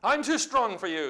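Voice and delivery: mock the opponent with rising confidence; taunting enemy. The enemy telling you he is stronger, taunting. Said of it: "The enemy says".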